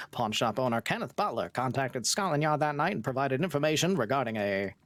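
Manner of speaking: put-on old newsreel announcer read; old-timey news voice. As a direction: read it like a vintage radio bulletin. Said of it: "your best, uh, old-timey news voice?".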